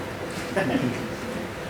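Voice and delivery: soft, voiceless scornful laugh; derisive laugh. Acted. Man mocking his childless brother's school boycott, derisive laugh. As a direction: chuckle low at the absurdity.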